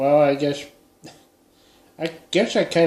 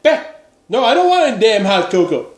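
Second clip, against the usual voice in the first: much higher, louder hammed-up yell; mock yell; 7 semitones higher, 6 dB louder than usual. To neighbours pushing hot cocoa, hammed-up yell. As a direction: snap it like the last warning. Pulling a gun on pushy neighbours.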